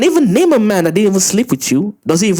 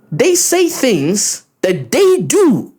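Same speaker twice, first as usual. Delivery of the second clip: slow mocking sing-song; 5 semitones higher, much slower than usual. Repeats line in mock slow voice.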